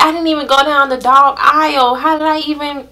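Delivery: can't believe it happened; stunned disbelief. Retold or imitated. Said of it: "And I was like".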